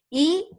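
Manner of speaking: first syllable I said on its own. Shown as a demonstration. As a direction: isolate the syllable "i", held separately. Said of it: "si vamos a separar". (la sílaba "i" pronunciada por separado)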